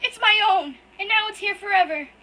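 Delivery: high, loud, tearful and breaking; sobbing out betrayal at full force; crying outburst. Acted. Hurt boy screams at his brother through tears, loud and high.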